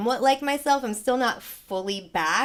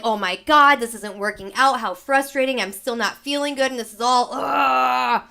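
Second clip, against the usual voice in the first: mock frustrated outburst; 2 semitones higher, 6 dB louder than usual. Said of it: "I got a little bit like that".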